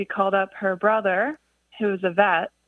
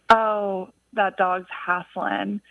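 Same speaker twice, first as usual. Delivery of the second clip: put-on Southern accent; much slower than usual. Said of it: "in her Southern accent".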